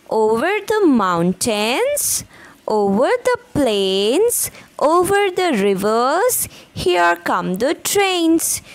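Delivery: sing-song rhythmic poem reading, slowing at the end; poem recitation. Shown as a demonstration. Teacher reciting to young pupils, rhythmic and lilting. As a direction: chant each line with a lift for the class.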